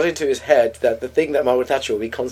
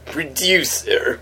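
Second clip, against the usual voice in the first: Ronnie Corbett; much slower than usual. Retold or imitated. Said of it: "I can do a Ronnie Corbett one word".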